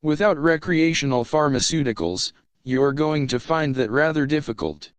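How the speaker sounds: calm HAL-like computer voice; unhurried polite AI, eerily calm; calm ship computer. Acted.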